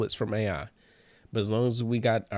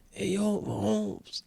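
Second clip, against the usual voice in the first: put-on higher Mexican vato accent, casual hail; 9 semitones higher, slower than usual. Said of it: "into a vato, a Mexican man".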